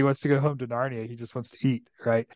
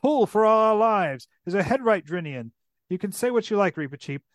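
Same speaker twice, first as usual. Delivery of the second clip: higher, urgent commands to the crew; a light read of a frightened captain; panicked king; 7 semitones higher than usual. Acted. Caspian urges his men to flee the darkness, urgent.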